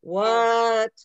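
slow drawn-out disbelief; shocked and dragging it out; stunned. Real, not acted. Shocked reaction to the recording.

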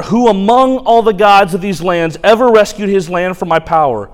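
mock their gods from the wall; taunting shout. Assyrian spokesman taunting Judah's gods, loud and scornful.

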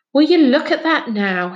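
marvelling at the football; impressed, delighted admiration; admiring. A narrator's reading. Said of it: "he said admiringly".

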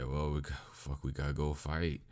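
lightly acted sleepy grumble; mock sleepy. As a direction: play it half-asleep and reluctant. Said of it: "Yusuke's absolutely sleepy".

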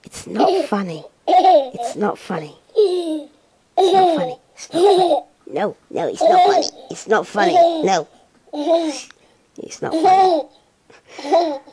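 stern telling off cracking into giggles; anger turning to laughter. Real, not acted. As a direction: try to scold but keep laughing. Scolding dissolves into laughter.

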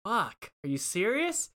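high, stunned question; can't believe what she heard; shocked disbelief. Retold or imitated. Narrator asking the clerk in disbelief.

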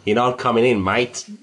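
a hint of an Australian accent; a half-hearted Australian bouncer; bad Australian accent. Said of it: "worst Australian accent I've ever heard".

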